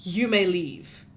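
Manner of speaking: slow, level, unbothered; cool repeat dismissal. Acted. Alana calmly repeats the lawyer's dismissal to the guard. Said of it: "looks up at him and says".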